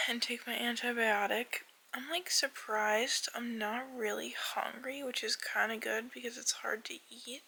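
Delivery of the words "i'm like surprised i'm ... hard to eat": whispering. Real, not acted.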